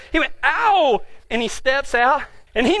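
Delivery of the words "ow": drawn-out mock "ow"; sound-effect yelp. Horse landing in cactus, sound-effect yelp. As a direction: imitate a pained horse. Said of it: "That was just sound effects".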